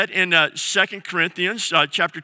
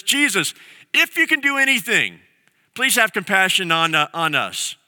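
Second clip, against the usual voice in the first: pleading father; 2 semitones higher than usual. Retold or imitated. A father begging Jesus to heal his son, desperate. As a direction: beg like a frantic father.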